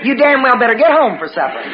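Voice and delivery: mock stern demand. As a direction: lay down the law to a husband. Supper question turned into a demand.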